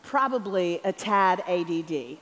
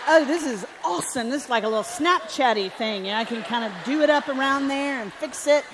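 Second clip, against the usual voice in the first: excited idea; 4 semitones higher, 4 dB louder than usual. Retold or imitated. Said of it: "And I was like".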